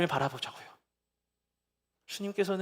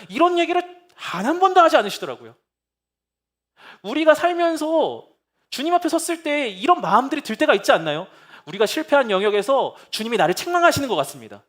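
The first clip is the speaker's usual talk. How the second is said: louder, higher passionate pulpit voice; fervent preaching; 9 semitones higher, 9 dB louder than usual. Acted. 설교자가 회중에게 호소하며, 열정적인 설교. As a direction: preach it out with full force.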